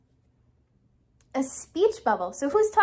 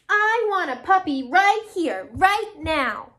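slow, loud, higher demand; a little angry; 3 semitones higher, 5 dB louder, slower than usual. Acted. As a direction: demand it like a cross pigeon, word by word. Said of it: "feeling a little bit angry".

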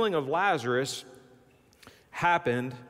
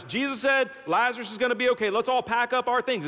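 acting out relieved followers, pitched up, quickening into eager chatter; relieved disciples; 5 semitones higher, faster than usual. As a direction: imitate excited disciples rallying everyone to go. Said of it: "the disciples were probably like".

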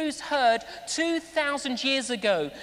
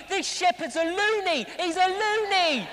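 mock incredulous; 5 semitones higher than usual. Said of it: "So they're all thinking".

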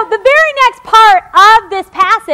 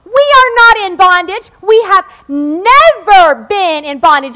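louder, defensive protest, mild mock; hammed-up indignant denial; defensive Pharisees; 4 dB louder, slower than usual. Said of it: "They were saying".

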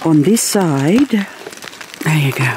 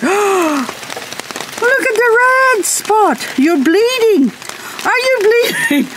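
very high, sing-song apology to a plant; baby talk; slower than usual. Acted. Gardener apologises to a hail-damaged plant in baby talk. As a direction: coo sorry at it like a hurt child.

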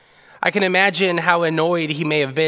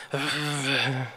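grumbling sigh; 3 semitones lower, 7 dB quieter than usual. Retold or imitated. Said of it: "He begins to grumble under his breath".

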